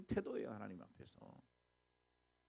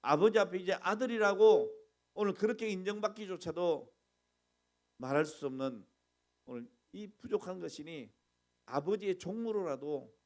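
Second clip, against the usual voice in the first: repentant plea; 5 dB louder than usual. Retold or imitated. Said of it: "그러잖아요".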